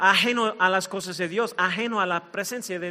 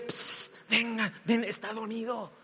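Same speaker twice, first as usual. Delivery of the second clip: quiet psst, beckoning soldiers over; hushed conspirator; secretive hushed call; 9 dB quieter than usual. Acted. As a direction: call them in softly, fading to very quiet. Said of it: "comienza a hablarle a los soldados filisteos".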